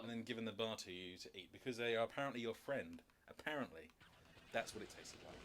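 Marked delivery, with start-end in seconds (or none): 3.3-3.9 unvoiced sarcastic aside; sarcastic whisper. Real, not acted. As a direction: whisper it dryly, under your breath.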